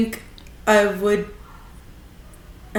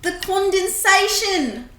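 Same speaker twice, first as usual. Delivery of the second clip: put-on higher New Zealand accent; 9 semitones higher than usual. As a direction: say it like a Kiwi. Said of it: "Rate my New Zealand accent".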